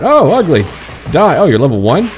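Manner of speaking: loud, high mock battle cry; excited battle shout. Real, not acted. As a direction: yell it as you charge the monster. Attacking an ugly creature.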